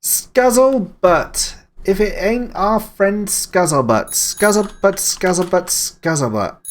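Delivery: high, slow drawn-out call of the name; sing-song greeting. Real, not acted. Streamer greeting viewer Scuzzlebutt, high sing-song call. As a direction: call the name out playfully, stretched.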